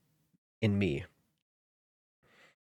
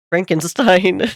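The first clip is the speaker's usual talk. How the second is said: loud, slow, drawn-out title call; announcer voice; 9 semitones higher, 13 dB louder, slower than usual. Acted. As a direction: announce it like a show host.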